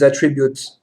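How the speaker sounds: "attributes" in an English accent, then correct to French; "attributes" pronounced as in English; English term, English accent. Shown as a demonstration. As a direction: say "attributes" the English way, ATT-ri-byoots. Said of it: "des mots anglais avec l'accent anglais".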